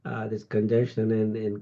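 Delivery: stuffy, nasal voice from a cold; talking through a blocked nose. Real, not acted. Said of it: "na-, nasal voice".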